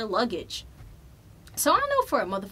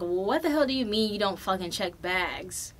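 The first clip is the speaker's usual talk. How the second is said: bitchy attitude. Retold or imitated. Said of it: "my bitchy attitude just, like, coming up".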